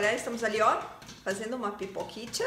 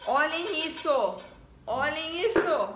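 excited; 4 semitones higher, much slower than usual. Real, not acted. Showing the mess.

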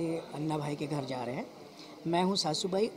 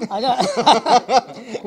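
man doing a woman's voice; 4 semitones higher, 11 dB louder, much slower than usual. Real, not acted. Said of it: "मैं लड़की की आवाज़ में क्यों बोल रहा हूँ".

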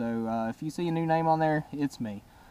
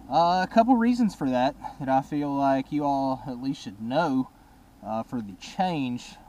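muffled helmet mic; talking inside a helmet. Real, not acted. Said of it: "sorry I'm talking into my helmet".

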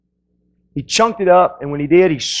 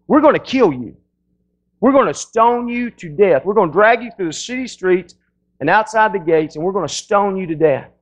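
higher, menacing mock threat; threatening mob; 4 semitones higher than usual. The crowd threatens Stephen to make him stop preaching, menacing. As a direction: warn him off, pitched up and pushing.

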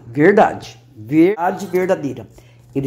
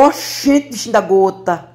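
Bahian father. Retold or imitated. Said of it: "meu pai falava assim".

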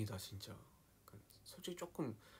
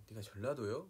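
lightly imitated Jeolla question; Jeolla dialect. Shown as a demonstration. Showing how Jeolla friends ask, light Jeolla accent. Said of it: "막 이러면서 이렇게 하고".

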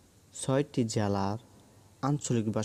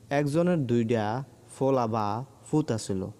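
Comilla dialect. Shown as a demonstration. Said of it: "Comilla অঞ্চলের আঞ্চলিক ভাষা হলো".

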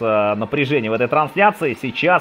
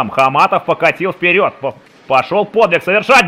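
building excitement; 4 semitones higher, 4 dB louder than usual. Real, not acted. Hockey rush building to goal.

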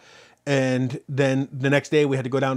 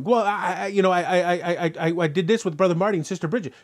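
mock stammering self-defence, pitched up; flustered excuse; 3 semitones higher than usual. Believer making excuses to God, mock flustered. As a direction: trip over the "I" while making excuses.

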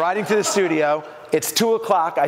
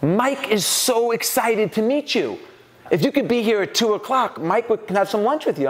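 gushing assistant; 6 semitones higher than usual. Retold or imitated. Assistant welcomes supposed Dana.

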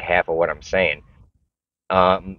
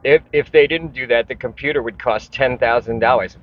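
mocking know-it-all; 4 semitones higher than usual. Ranting vlogger mocks people defending outsourcing, higher snooty voice. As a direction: parrot the argument in a snooty mocking voice. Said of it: "I hate the argument where people are like".

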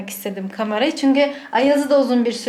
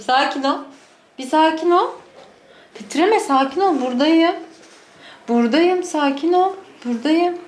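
calm the trembling dog; soothing; 6 semitones higher than usual. Real, not acted. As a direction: owner reassuring her frightened dog.

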